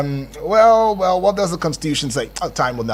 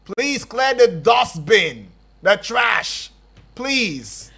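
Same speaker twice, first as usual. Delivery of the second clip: slow plea; 3 semitones higher, much slower than usual. Real, not acted. Host begging agency to clear trash.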